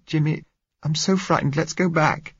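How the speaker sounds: put-on high, anxious young woman's voice; scared girl, pitched right up; frightened plea. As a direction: beg your sweetheart to turn back. Girl says she is frightened.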